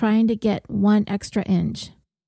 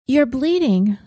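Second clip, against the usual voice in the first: alarmed; 4 semitones higher than usual. Acted. Leah sees Maria's bloody face.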